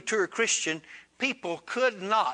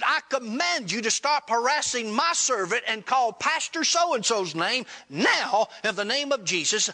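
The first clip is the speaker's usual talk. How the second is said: retold exorcism order, pitched up; authoritative command; 5 semitones higher than usual. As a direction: order the spirit out as a preacher would. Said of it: "command that spirit in my name".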